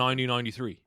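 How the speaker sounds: "nineteen ninety-three" quickly, with the T's softened away; imitated accent dropping T's in "nineteen ninety-three"; T's dropped. Shown as a demonstration. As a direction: run "nineteen ninety-three" together without crisp T's. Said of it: "No, they don't".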